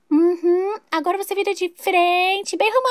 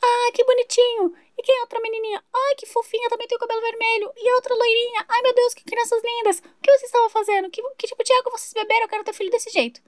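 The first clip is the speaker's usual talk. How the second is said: gushing neighbour; 5 semitones higher than usual. Acted. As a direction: coo at the children like a doting neighbour. Vizinha encantada com as crianças. (vizinha derretida pelas crianças)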